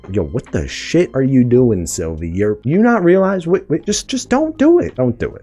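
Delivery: rising, pleading voice for Mobius, climbing high; mock Mobius plea. Mobius begging Sylvie not to do it, high mock plea.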